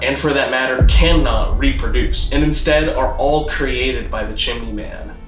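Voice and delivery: ordinary delivery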